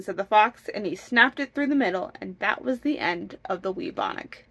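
lively, measured storybook narration; storytelling. A narrator's reading. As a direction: read the folk tale aloud with bounce. Reads a folk tale aloud.

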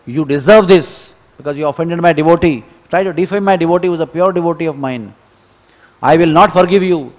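a divine master's loud rebuke; stern chastising. Retold or imitated. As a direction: rebuke him firmly. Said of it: "Lord Chaitanya chastised him".

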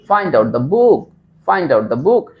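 teacher's model with BOOK brought out; model phrase. Shown as a demonstration. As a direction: say "Find out the book" for students to copy, firm on "book". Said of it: "এইভাবে আপনাকে বলার চেষ্টা করতে হবে".

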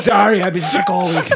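loud mock apology; hammed-up apology through amusement; imitating the stranger. Stranger excuses herself to the table, loud imitation. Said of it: "and she goes".

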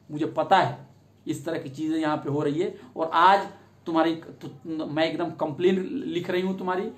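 reassuring officer. Retold or imitated. A lightly voiced woman SHO reassuring the frightened victim, gentle. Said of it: "और वो कहेगी".

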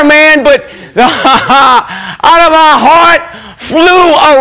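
high, slow, breaking with emotion; overcome, half laughing half crying; laughing through tears. Real, not acted. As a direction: ecstatic testimony near tears. Overwhelmed retelling of hell vision.

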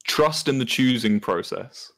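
slow model sentence with a long oo in "choosing"; hard oo sound. Shown as a demonstration. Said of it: "Can you say that?".

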